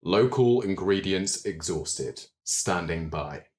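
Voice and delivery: slow, evenly spaced machine announcement; mechanical voice. Acted. Golem reporting to the players after serving food, slow mechanical voice. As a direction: deliver it word by word like an automaton. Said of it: "states in this mechanical voice".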